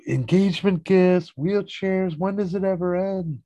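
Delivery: high, loud exasperated rant; mock exasperation. George to Kramer over gifts and wheelchairs, exasperated. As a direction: complain as if utterly fed up.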